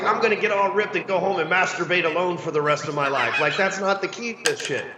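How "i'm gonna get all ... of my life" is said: laughing mock quote. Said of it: "Nobody's ever like".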